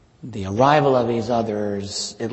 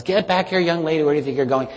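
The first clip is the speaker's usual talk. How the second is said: higher, fast scolding mother calling her daughter back; mother scolding her daughter in church, fast and higher; 5 semitones higher than usual. Retold or imitated. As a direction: snap it like a mom calling after her kid. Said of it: "and her mother".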